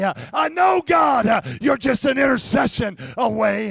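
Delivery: mild fervent prayer. Acted. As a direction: preach it out, building. Prayer building to a loud proclamation.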